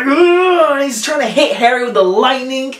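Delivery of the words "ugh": Voldemort grunt. Retold or imitated. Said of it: "Voldemort's like".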